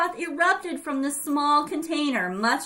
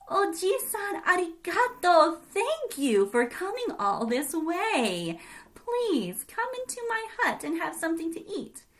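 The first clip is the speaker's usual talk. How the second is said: sparrow voice; 6 semitones higher than usual. Acted. Sparrow Chan thanks the old man.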